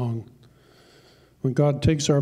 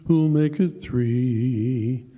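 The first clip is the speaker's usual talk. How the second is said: auctioneer calling; 2 semitones higher, slower than usual. Acted. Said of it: "And then he cried".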